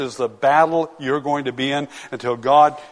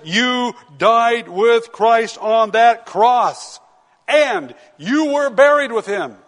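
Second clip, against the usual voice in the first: slow, high, solemn proclamation in a louder voice; voicing God's declaration; 5 semitones higher, 3 dB louder, slower than usual. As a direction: announce it as God himself would, weighty and drawn out. He says.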